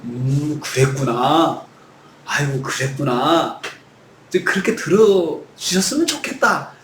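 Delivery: low, slow, gentle 그랬구나; tender comforting. Acted. David imagining God gently answering him, tender. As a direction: soothe him like a listening father. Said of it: "그렇게 지금 요청하고 있는 거예요".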